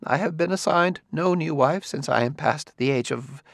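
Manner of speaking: slow confession about his dead wife; said slowly. A narrator's reading. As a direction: ease out the memory slowly. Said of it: "He said slowly".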